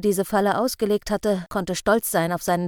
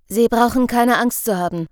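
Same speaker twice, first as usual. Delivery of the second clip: clearly spoken; 3 semitones higher, 6 dB louder than usual. Acted. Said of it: "sagte er deutlich".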